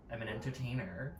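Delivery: imitated attitude, softly delivered; retold attitude. Star telling TikToker her job, imitated attitude. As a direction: answer with understated mock attitude. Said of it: "starts to get an attitude".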